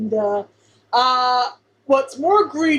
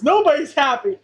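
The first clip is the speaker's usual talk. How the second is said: imitating a character's yell, slightly raised; half-hearted retold shout, pitched higher; mild mock yell; 4 semitones higher than usual. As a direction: lightly act out yelling at a crowd. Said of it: "and yells at the, yells at everybody".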